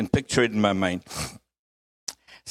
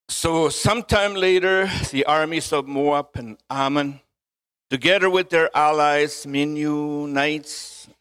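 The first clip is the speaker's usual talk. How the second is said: measured Bible reading aloud; deliberate, phrase-by-phrase scripture delivery. Acted. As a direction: read it out to the congregation in phrases.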